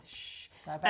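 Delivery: soft unvoiced whisper; whispering over a crib. Real, not acted. Hushing baby back to sleep.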